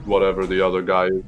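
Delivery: Bernie voice. Retold or imitated. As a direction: drawl it like an old senator. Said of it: "a different politician's voice".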